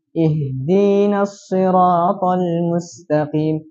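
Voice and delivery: "Ihdinas" dengan ya setelah dal, sangat lambat; tambah ya setelah dal. Shown as a demonstration. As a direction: eja pelan "Ihdinas siratal mustaqim". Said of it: "tambahkan ya setelah huruf dal". (contoh bacaan "Ihdinas" pelan dan jelas)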